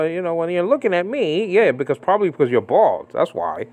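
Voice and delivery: lampoon his pompous excuse; mocking impression. Preacher mocking James White's sunglasses excuse, sarcastic.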